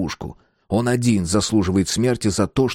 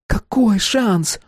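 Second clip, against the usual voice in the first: dim thug voice; 13 semitones higher, much slower than usual. Acted. Vik's dim questioning.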